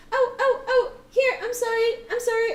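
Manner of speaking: put-on a little girl saying sorry fast; apologetic little girl. GM voices apologetic child.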